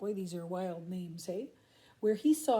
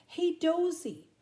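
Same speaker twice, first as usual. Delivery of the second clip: slow, loud, higher call upward; 7 semitones higher, 6 dB louder, slower than usual. Acted. Crikey calling up to the koala in the tree, loud and slow. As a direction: stretch the call up the gum tree. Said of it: "Crikey called up".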